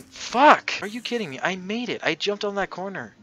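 loud frustrated yelling; angry outburst. Real, not acted. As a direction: shout it in disbelief. Rage after dying in game.

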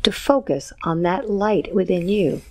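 calm guided visualization; hypnotic guided induction. Acted. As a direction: guide them gently, count by count. Hypnotist counts client into light.

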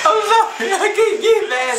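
giggling apology, can't hold it; co-host cracking up while apologizing; laughing. Real, not acted.

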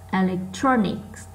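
slow "electronics" with TRON picked out; stressed third syllable. Shown as a demonstration. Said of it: "nó to hơn những âm còn lại". (đọc chậm, nhấn âm ba của "electronics")

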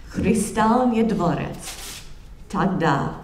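a lecturer reading Dostoevsky in halting English-accented Russian; heavily English-accented Russian. Shown as a demonstration. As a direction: sound out the Russian like a careful English speaker. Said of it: "excuse my very bad accent in, in Russian".

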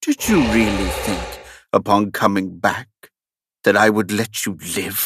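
falsely kind. Acted. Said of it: "Vesuvius said kindly".

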